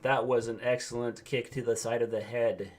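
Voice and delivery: slow, flat indie commentator; deadpan play-by-play, no excitement; monotone commentator voice. Acted. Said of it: "monotone voices".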